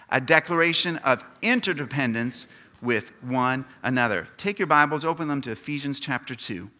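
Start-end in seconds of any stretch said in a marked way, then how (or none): 0.1-4.3 louder, deliberate words for all to join; leading group recitation. Shown as a demonstration. Preacher asking the congregation to say it with him, loud and measured. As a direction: lead the room in saying it together, loudly. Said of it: "Would you say that with me?".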